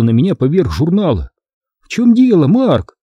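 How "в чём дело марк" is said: high-pitched puzzled question; surprised. A narrator's reading. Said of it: "удивлённо спросила она". (удивлённый вопрос высоким голосом)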